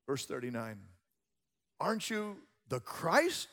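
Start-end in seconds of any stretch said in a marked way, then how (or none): 1.8-3.5 high-pitched taunting question; hurled insult. Retold or imitated. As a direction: imitate a criminal's jeer. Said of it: "hurling their insults".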